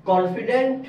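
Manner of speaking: CONFIDENT ending in a "-dent" sound. Shown as a demonstration. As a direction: say কনফিডেন্ট with an E vowel, "kon-fi-dent". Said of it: "এটার উচ্চারণ হচ্ছে কনফিডেন্ট".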